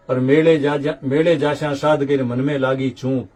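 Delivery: measured, rhythmic recital of devotional couplets; verse recitation. Acted. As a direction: recite the old verses line by line, lifted and metrical. Recites verses about Indra.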